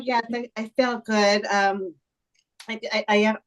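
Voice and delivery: talking with something in the mouth; words round a mouthful of food; mouth full. Real, not acted. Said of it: "have something in my mouth".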